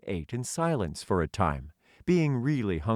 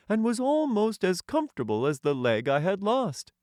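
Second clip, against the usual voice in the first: Tin Man voice; 11 semitones higher than usual. Acted. The Tin Emperor welcoming a hungry stranger, high and stately. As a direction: lift the voice high and speak as a courtly tin ruler.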